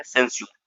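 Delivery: सेंस्योर said lightly, the स्योर soft and unstressed; light pronunciation demo. Shown as a demonstration. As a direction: model सेंस्योर gently with a light स्योर ending. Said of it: "इसको हल्का सा पढ़ना है". (सेंस्योर हल्के से उच्चारण)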